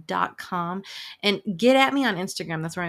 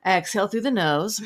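guided breath cue. Shown as a demonstration. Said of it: "let's just do it right now".

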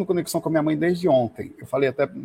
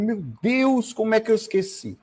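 startled realization; 7 semitones higher than usual. Retold or imitated. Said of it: "chega a ficar assustado".

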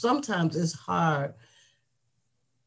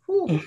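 breathless whew; 11 semitones higher than usual. Real, not acted. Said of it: "Let me catch my breath".

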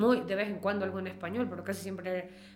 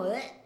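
mock disgust. Shown as a demonstration. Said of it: "En español es como".

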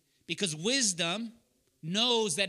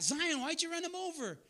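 put-on raised pitch, accusing question to a child; exasperated scolding; 9 semitones higher, 4 dB quieter than usual. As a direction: re-enact a dad scolding his little girl. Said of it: "I just said it like that".

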